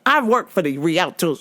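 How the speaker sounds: lightly voiced pushy customer; imitating the customer. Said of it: "she's like".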